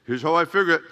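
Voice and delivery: lightly imitated Mexican accent. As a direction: put on a slight Hispanic accent. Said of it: "he's got this Mexican accent too".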